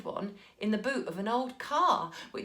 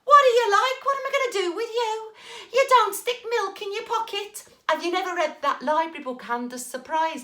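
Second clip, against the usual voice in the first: much higher, loud half-laughing scold; laughing exasperation; 10 semitones higher, 6 dB louder than usual. Acted. Mum laughing in despair at Jack.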